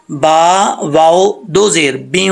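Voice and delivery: slow letter-by-letter spelling ending in long nasal ब्यूं; spelling out connection. Shown as a demonstration. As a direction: spell it, then hum into the w of ब्यूं. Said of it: "बा को वाव से connect करेंगे". (हिज्जे करके ब्यूं को खींचें)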